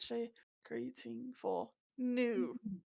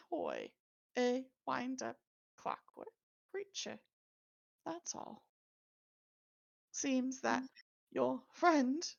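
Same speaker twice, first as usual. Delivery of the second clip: mechanical toy voice. Acted. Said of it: "Why did your voice change?".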